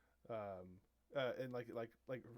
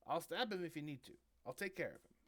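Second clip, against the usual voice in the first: lightly voiced gnome sidekick, higher pitch; little vampire gnome; 7 semitones higher, 24 dB louder, faster than usual. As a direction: pitch it up like an eager little henchman. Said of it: "almost like a vampire gnome".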